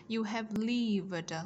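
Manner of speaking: "lived" slow, with the final d released; slow teacher model, "lived" ending in d; added d ending. Shown as a demonstration. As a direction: sound out "You have lived" slowly, down to the last d. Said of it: "Chúng ta thêm đuôi d".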